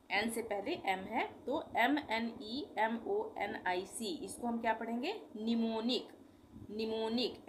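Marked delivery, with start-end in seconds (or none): 5.3-7.4 "निमोनिक" starting on N, no M before it; silent M. Shown as a demonstration. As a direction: model "निमोनिक" with the first M silent. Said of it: "एम silent हो जाएगा". ("निमोनिक", शुरू का म silent)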